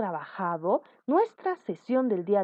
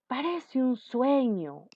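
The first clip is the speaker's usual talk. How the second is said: slow, higher-pitched mild wonder; acted emotion; 4 semitones higher, slower than usual. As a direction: exclaim it with drawn-out feeling. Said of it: "una emoción". (exclamación emocionada y lenta)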